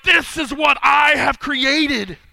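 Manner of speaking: slow, proud, loud proclamation; king marvelling at the city he built; excited boast. Acted. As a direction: savor every word of the boast. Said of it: "He's excited about what's going on".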